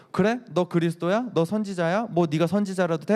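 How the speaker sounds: high-pitched mocking questions; acted heckling, pitched well up; jeering. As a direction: taunt with rising, incredulous questions. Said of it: "막 욕하고 침 뱉고".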